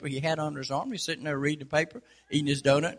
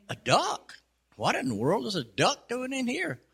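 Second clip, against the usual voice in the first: high, astonished disbelief; can't believe a duck walked in; shocked clerk; 7 semitones higher than usual. Retold or imitated. Counter lady gasping at the duck, surprised.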